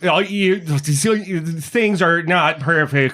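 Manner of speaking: a broken voice pattern struggling to get words out; breaking-up voice. Acted. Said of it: "You're breaking up".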